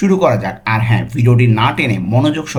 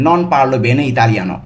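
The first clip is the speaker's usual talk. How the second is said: slow careful pronunciation; much slower than usual. Shown as a demonstration. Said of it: "উচ্চারণগুলো কিন্তু ভালো মতো খেয়াল করবেন".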